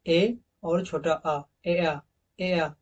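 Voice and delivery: very slow, each part of एआ drawn apart; teacher slowly splitting the sound. Shown as a demonstration. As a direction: spell out ए and छोटा आ slowly, then blend into एआ. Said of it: "Hindi के अक्षरों में".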